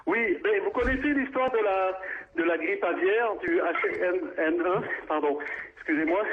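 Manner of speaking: winded from running; breathless, catching his breath. Real, not acted. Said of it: "j'ai couru pour être chez moi". (essoufflé après avoir couru)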